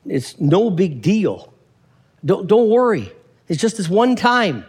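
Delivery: lightly acted brushing-off, pitch lifting; dismissive simple guy. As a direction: play it down like an excuse. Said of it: "He's gonna tell you".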